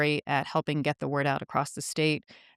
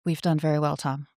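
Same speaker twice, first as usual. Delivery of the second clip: public radio voice. Pretend. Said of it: "I had to get my public radio voice in here".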